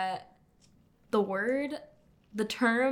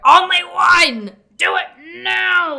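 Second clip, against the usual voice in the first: high, loud, slow mock shout; 9 semitones higher, 18 dB louder, slower than usual. Retelling a hostage call to a friend, mock shout. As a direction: bark the order in mock fury. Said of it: "And he said".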